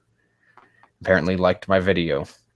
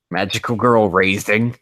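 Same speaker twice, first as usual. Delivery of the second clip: incredulous; 2 semitones higher, 5 dB louder than usual. Real, not acted. Streamer rereading a weird anime title, incredulous and louder. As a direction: say it like you can't believe the title. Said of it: "What do you mean?".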